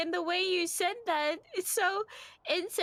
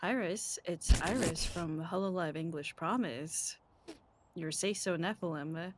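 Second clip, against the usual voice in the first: much lower, softer, dragging impression; deep mock voice; 6 dB quieter than usual. Shown as a demonstration. Friend asked to redo the line, low mock voice. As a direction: drop into a low mock announcer voice. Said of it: "Do that again?".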